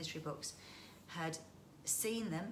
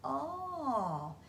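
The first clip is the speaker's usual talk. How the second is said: sympathetic oh; 7 semitones higher, 4 dB louder than usual. Acted. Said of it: "said the children sympathetically".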